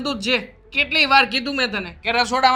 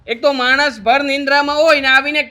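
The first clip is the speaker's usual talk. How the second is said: higher, louder scolding of his wife; angry scolding; 3 semitones higher, 4 dB louder than usual. Acted. Husband scolds wife for waking him, angry. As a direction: tell her off hard for the teasing.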